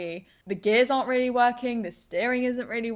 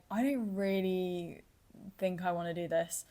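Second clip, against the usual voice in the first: small scared voice; 6 dB quieter than usual. Retold or imitated. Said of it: "I am sitting there going".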